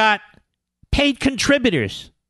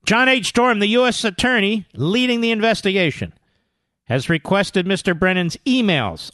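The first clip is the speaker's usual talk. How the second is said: measured, projected article reading; news read. Real, not acted. Radio host reading breaking story aloud, emphatic news read. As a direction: read it out point by point.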